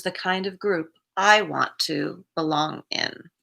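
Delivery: measured read-aloud of a reflection. Acted. Streamer reads the day's recovery reflection to viewers, measured reading. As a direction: read it out evenly, pausing between sentences. Reads a quoted book passage.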